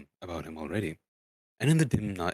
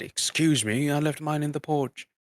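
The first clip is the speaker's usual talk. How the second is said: dwarves voiced; 7 semitones higher, 5 dB louder than usual. Dwarves excuse themselves, voiced.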